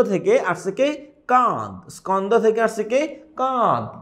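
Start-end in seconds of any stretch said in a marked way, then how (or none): 1.3-1.9 কাঁধ with the aa said through the nose; nasalised vowel. Shown as a demonstration. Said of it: "নাক থেকে". 3.4-4.0 কাঁধ with the aa said through the nose; nasalised vowel. Shown as a demonstration. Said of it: "নাক থেকে".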